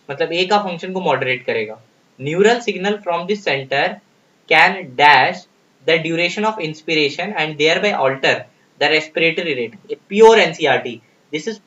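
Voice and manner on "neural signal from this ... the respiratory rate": slow, deliberate reading of an exam question. Acted. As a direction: read each word out slowly for the class. Reads question very slowly.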